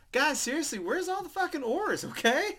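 exasperated captain. Retold or imitated. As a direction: demand the oars like a vain captain. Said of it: "goes out there like".

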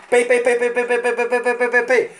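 pei pei rápido e mais agudo, como tiros; tiros imitados. Retold or imitated. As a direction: metralha os pei. (tiros de brincadeira com a boca)

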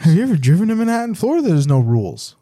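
a giggly incredulous question; laughing retort. Retold or imitated. Repeating the retort through laughter.

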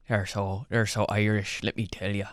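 low-key put-on Irish accent. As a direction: softly put on an Irish lilt. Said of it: "I got a killer Irish accent".

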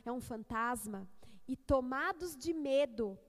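solemn, measured public Bible reading; scripture reading. Acted. Preacher reads the gospel to the congregation, solemn scripture reading. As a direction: read it out with weighty emphasis on key words.

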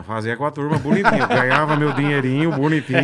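joking comic boast, laughing; sounding like Bola. Acted. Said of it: "Você falou igual bola agora".

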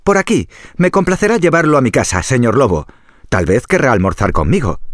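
high, bright piglet voice; a clever little pig luring. Acted. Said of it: "le dijo al lobo".

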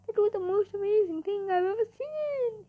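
high, wailing, weepy voice; tearful sobbing. Acted. Zombie moved by the experiment, hammed-up sobbing. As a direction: gush it on the edge of sobs. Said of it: "ran out of the gym sobbing".

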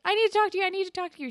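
high-pitched, urgent imitation; retold urgent plea. Student runs to find the teacher, urgent. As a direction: imitate a student pressing for attention.

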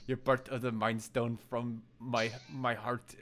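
slow imitation of Wanda's odd accent; slow, in-and-out weird accent. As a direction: lightly put on a strange accent, drawn out. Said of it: "weird accent that Agatha always makes fun of her".

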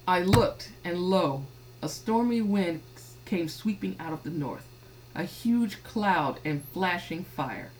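measured, deliberate scripture reading. Acted. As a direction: read the verses out in measured phrases. Reads scripture aloud.

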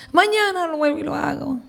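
quick, softened excuse; soft reluctant reply. Retold or imitated. María answering God's next call, quietly reluctant. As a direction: murmur a hurried putting-off. Putting God off once more.

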